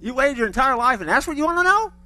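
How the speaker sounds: a mildly incredulous, teasing reply; incredulous God. Retold or imitated. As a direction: gently scoff at the question. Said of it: "Or he may just go".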